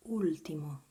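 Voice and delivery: ultimo loud, opening on a pure "oo"; pronunciation demo. Shown as a demonstration. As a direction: model ultimo clearly as "OOL-tee-mo". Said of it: "we have as words".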